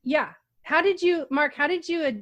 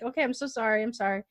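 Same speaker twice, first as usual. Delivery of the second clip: softer, subdued apologetic quote; retold apology; 5 dB quieter, faster than usual. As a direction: act out a sheepish sorry, dropping the volume. Retold apology after laughing.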